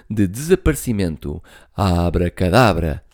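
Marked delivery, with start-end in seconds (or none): 1.7-3.0 exclaimed. Acted. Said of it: "exclamou ele".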